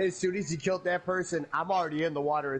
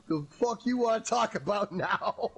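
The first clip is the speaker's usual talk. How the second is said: laughing mock quote; 4 semitones higher than usual. Laughing retelling of friend's quote.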